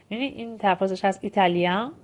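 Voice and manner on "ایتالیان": 'ایتالیان' ending in a nasal vowel, n not sounded; French nasal vowel closing 'ایتالیان', no final n. Shown as a demonstration. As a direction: let the end of 'ایتالیان' go into the nose. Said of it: "نزله".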